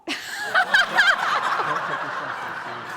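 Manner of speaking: high burst of real laughter at herself. Real, not acted. Preacher forgets her own punchline, real laughter. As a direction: laugh out loud after blanking on the line.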